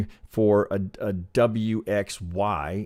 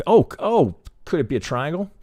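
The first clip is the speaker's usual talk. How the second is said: sudden realization; 7 semitones higher, 5 dB louder than usual. Retold or imitated. Imagined trader realizing a triangle.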